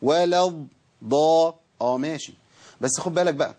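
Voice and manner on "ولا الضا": slow, drawn-out ولا الضا with a strongly held doubled ض; over-clear Dad. Shown as a demonstration. Teacher deliberately overdoes it to show pupils, held ض in الضا. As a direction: linger on the ض of الضا, then open into a long A. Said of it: "أنا ببينه أكتر".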